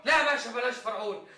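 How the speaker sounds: alarmed pleading. Acted. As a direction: beg him not to do it. Suspect begs at the threat.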